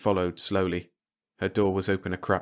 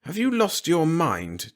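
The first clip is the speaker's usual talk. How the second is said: restrained; 8 semitones higher, slower than usual. Acted. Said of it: "with almost saintly restraint".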